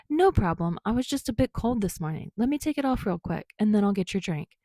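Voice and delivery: a hint of a sunny barista; easygoing Kirishima. Kirishima voiced by narrator.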